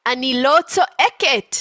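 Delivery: high, loud protest; mock yelling denial. Mother insisting she is not yelling, mock yell. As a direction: deny yelling while raising your voice.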